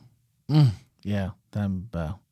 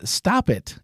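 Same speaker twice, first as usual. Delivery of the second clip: high mock exclamation on "Stop it!"; exclaimed; 7 semitones higher than usual. Reading a listener's comment aloud, as a mock exclamation. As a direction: pop the listener's comment out sharply. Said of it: "Exclamation point".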